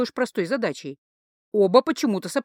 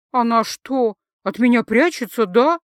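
hurt; 2 semitones higher, 5 dB louder than usual. Acted. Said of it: "с обидой в голосе".

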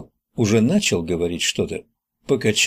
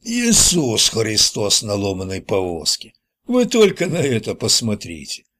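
мистер Нелл. Acted. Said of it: "громкий, пропитой голос мистера Нелла". (слегка пропитой голос, с растяжкой)

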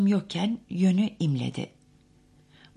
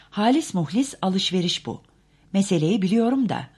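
insisting; 4 semitones higher, 6 dB louder than usual. A narrator's reading. Narrator insists to Daisy.

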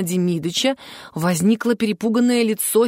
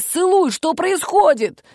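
higher, slow urgent call; call from the wings; 9 semitones higher, 3 dB louder, slower than usual. A narrator's reading. Stagehands shout from the wings at the stalled prince, urgent. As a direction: urge him on from backstage. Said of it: "закричали ему из-за кулис".

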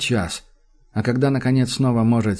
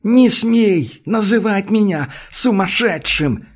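higher, louder, slow furious shout; 8 semitones higher, 4 dB louder, slower than usual. A narrator's reading. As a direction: scream each word out. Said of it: "кричит он". (медленный яростный крик)

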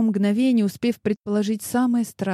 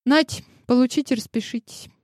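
careless; 6 semitones higher than usual. A narrator's reading. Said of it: "небрежно бросила листок".

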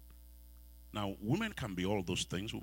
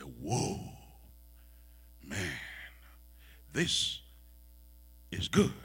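excited; much slower than usual. Retold or imitated. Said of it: "he broke out with excitement".

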